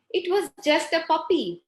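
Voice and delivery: consoling father. Acted. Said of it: "father is trying to console the child".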